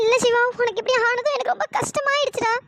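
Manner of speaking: mildly tearful, upset concern. Acted. Girl upset at seeing Siva hurt, tearful. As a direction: speak through held-back tears. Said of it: "எதுக்கு மகா அழுகுற?".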